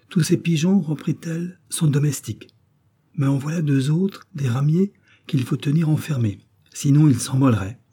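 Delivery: put-on high, bold robber girl bragging. Robber girl voiced in story.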